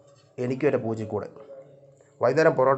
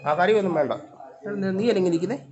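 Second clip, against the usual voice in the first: high-pitched pet talk; 8 semitones higher than usual. Real, not acted. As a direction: chat to the cat in a raised pitch. Chatting to her cat. (പൂച്ചയോട് ഉയർന്ന സ്വരത്തിൽ കൊഞ്ചൽ)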